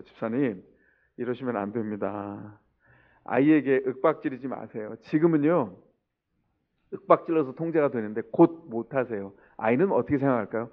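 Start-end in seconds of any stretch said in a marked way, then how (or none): 0.0-9.3 low, soft, measured appeal; hushed, lowered voice of retold advice; gentle admonishing. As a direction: take him aside and counsel him quietly. Pastor retells gently admonishing a father.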